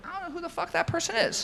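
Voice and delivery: barely holding back laughter; laughing retelling. Retold or imitated. Recounting the author denying knowing the fake agent, laughing. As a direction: quote him, high and laughing.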